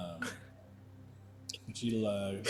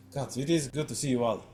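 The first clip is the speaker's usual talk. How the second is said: put-on lightly accented, weary complaint to friends; a touch of exasperation, Romanian-accented; Irina in a Romanian accent; 6 dB louder than usual. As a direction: joke wearily about the job in a Romanian accent. GM plays Irina to the players.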